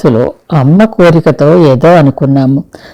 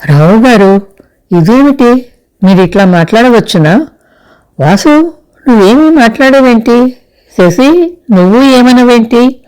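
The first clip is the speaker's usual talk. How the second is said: higher, rising panic in every question; flustered alarm; 6 semitones higher than usual. A narrator's reading. Chandrika flustered, questioning the others in a higher panic. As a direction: voice climbing as she turns from one to the next. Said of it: "గాబరాగా అంది చంద్రిక".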